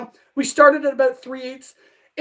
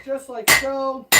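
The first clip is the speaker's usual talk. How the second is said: slow; much slower than usual. Real, not acted. Slow hammering rhythm.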